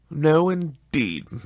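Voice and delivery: high and slow, eager to agree; high placating woman. Acted. Missus Dilber agreeing with the charwoman, high and placating. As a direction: soothe her, drawn out and high.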